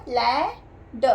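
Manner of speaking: stretched out blending of ले and ड; slow sound blending. Shown as a demonstration. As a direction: draw the sounds out slowly. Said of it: "क्या हो गया?". (ले ड को बहुत धीरे खींचकर जोड़ना)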